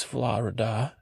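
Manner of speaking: "Florida" said the local way, drawn out; "Florida" in a put-on local pronunciation. Shown as a demonstration. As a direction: imitate how locals pronounce "Florida". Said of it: "that's how they say it here".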